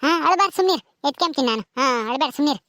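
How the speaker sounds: put-on low-pitched hushing of a baby; gently calm a crying child; soothing. Woman tells crying baby she will pick her up, soothing.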